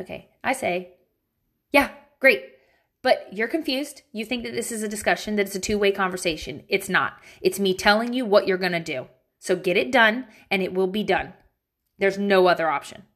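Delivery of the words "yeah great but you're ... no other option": a hint of a stern, no-nonsense mom; irritated mom voice. Shown as a demonstration. Mom telling kids there's no discussion, irritated mom voice. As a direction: lay down the law with mild irritation. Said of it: "Let me give you my mom voice. I gotta channel my irritation".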